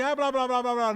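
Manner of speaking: high, careless blah-blah; dismissive imitation of empty chatter; mock babble. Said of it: "eles não falaram assim".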